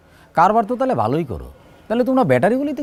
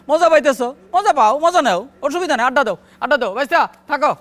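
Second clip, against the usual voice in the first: higher, lively indulgent encouragement; eager placating; 5 semitones higher than usual. Acted. Local boss placating his tough nephew, eager indulgence. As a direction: humour him and keep him happy.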